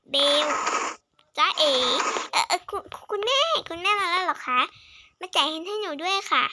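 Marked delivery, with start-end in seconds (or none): 2.3-4.6 nervous, stammering, close to tears, a bit higher; a caught child stuttering out an answer; scared stammer. Acted. Caught child stammers to her mother, scared and near tears.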